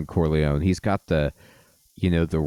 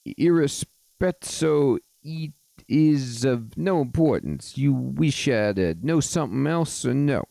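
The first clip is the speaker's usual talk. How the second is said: put-on Mario accent; 5 semitones higher than usual. Fairy godfather dismisses the question in a Mario accent. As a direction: draw it out in cartoon Italian. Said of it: "got the, the Mario accent".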